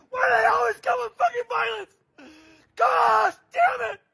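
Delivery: crying, furious outburst; angry shout. Real, not acted. Raging at the violence, shouting while crying. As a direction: shout it through tears.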